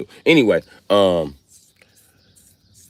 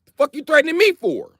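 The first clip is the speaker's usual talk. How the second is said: very high, whiny protest; hammed-up panicked son pleading innocence; Jesus as scared son. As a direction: squeak out a denial to daddy. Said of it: "He like".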